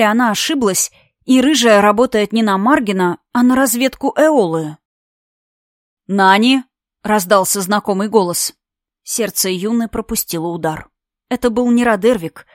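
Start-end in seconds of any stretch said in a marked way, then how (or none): 6.1-6.6 calling out. Acted. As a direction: call her name loudly. Margin calls out through door.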